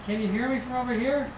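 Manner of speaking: distant echo, like a tiled room; echoing bathroom. Real, not acted. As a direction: sound far from the mic. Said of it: "it sounds like I'm in the bathroom".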